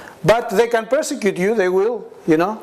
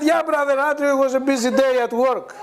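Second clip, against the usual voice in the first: mock pious Christian; 7 semitones higher than usual. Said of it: "I said".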